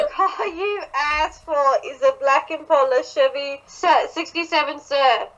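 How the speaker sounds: badly faked accent, breaking into laughter; Jarvis. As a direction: unplaceable fake accent, giggly. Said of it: "I don't know what accent that was".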